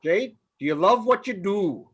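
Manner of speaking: put-on Minnesotan accent. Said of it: "your best Minnesotan accent".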